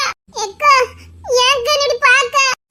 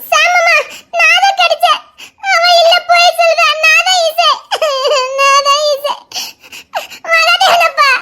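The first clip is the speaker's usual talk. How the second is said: tearful insisting; 3 semitones higher than usual. Acted. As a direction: insist through tears that you are the real one. Girl insisting she is Isai. (அழுகையுடன் வலியுறுத்தல்)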